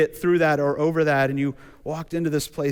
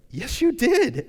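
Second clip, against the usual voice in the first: insistent God; 10 semitones higher, 4 dB louder, slower than usual. Retold or imitated. God answering Sarah's denial.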